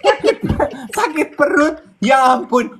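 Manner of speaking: suara naik tinggi, kaget dan geli; pura-pura syok sambil tertawa; kaget sambil ketawa. Real, not acted. (kaget geli, lebih tinggi)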